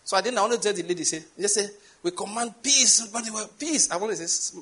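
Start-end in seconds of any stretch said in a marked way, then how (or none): 2.0-3.1 mock shouted prayer. Imitating praying passengers over a storm, mock shout. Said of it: "before you shout peace". 3.6-3.9 high, brief cry of command; mock shouted prayer. Imitating a woman praying on the plane, mock shout. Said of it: "before you shout peace".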